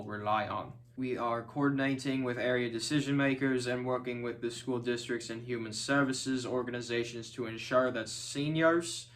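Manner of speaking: measured civic speech read like a mayor at a podium; steady, official reassurance to the city; formal public address. Acted. Mayor addressing residents in a crisis, formal speech voice.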